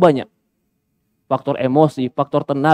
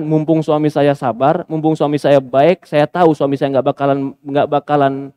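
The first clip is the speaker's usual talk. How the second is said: mock smug wife; 4 semitones lower than usual. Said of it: "Dia manfaatkan dengan".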